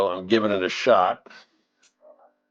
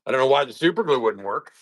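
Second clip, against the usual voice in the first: wobbly, warbling phone line; glitchy call audio; 4 semitones higher than usual. Real, not acted. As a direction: voice breaking up over a bad call. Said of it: "You are glitching out a bit".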